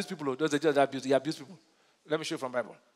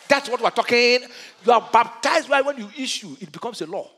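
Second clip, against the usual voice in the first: raised, driving pulpit declaration; emphatic preaching; 5 semitones higher, 4 dB louder than usual. Real, not acted.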